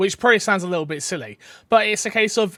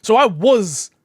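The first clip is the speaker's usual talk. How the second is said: laughing admission; 4 semitones higher, 5 dB louder than usual. Real, not acted. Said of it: "it was my fault".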